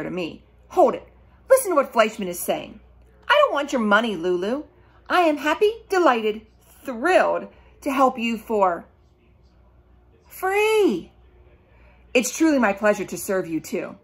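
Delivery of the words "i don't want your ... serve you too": put-on eager boy voice. Fleischman's eager speech voiced.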